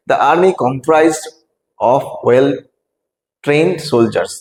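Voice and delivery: slow, deliberate read-aloud; reading quiz question. Shown as a demonstration. Teacher reading question and options slowly to students.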